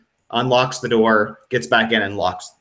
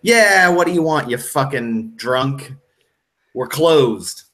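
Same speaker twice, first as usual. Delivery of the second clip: annoyed pub owner; 4 semitones higher, 3 dB louder than usual. Acted. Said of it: "and he's like".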